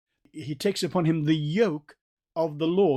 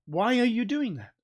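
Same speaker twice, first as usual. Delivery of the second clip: high-pitched challenge; sharp rise in pitch, calling someone out; confronting; 7 semitones higher than usual. Acted. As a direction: confront him with a raised, incredulous question. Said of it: "he faced Peter with this statement".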